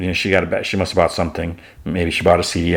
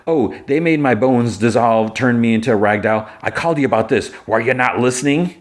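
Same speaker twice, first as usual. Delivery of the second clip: higher-pitched, aggrieved retelling; acted indignant complaint; 4 semitones higher than usual. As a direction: whine the grievance lightly, pitch raised. Jimmy complains to Superman.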